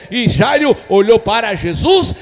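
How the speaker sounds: loud, emphatic Bible retelling; forceful pulpit storytelling; full-force preaching. Acted. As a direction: drive each phrase out to the congregation.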